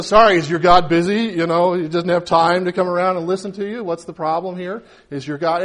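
mild mock sympathy; mocking taunt. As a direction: tease the rival prophets about their absent god. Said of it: "starts to make fun of him".

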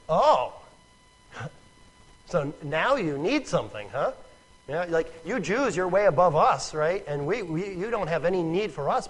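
mildly scornful needling; a touch of sarcastic rebuke; rude rebuff. Acted. Samaritan woman answering the Jew asking for a drink, mildly rude. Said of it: "she answers him very rudely".

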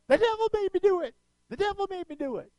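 very high, fast comic squeal; Flip Wilson. Retold or imitated. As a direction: imitate a comedian's catchphrase, shrieked high and quick. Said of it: "it was Flip Wilson".

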